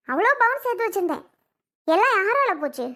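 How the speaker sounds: the savings line again, now crying; tearful. Acted. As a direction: say அவ்வளோ Pawan with the voice breaking into tears.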